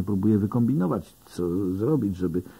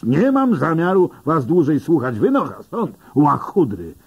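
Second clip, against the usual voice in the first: wyżej i głośniej, wściekle; wyrzuć ich stąd krzykiem; gniewny krzyk; 7 semitones higher, 4 dB louder than usual. A narrator's reading. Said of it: "ryknął gliniarz". (policjant wygania ich ze stacji, gniewnie krzycząc)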